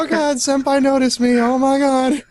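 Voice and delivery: high squealing fangirl gush; excited anime fan. Pretend. Mocking starstruck anime fan.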